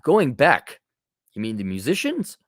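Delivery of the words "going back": "going back" with the weight on "going", falling at the end; stress on going. Shown as a demonstration. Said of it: "not back".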